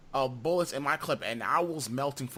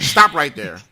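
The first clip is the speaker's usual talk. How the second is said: much louder sharp stop; loud interruption; 13 dB louder, slower than usual. Real, not acted. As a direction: shut it down now. Cuts off the segment.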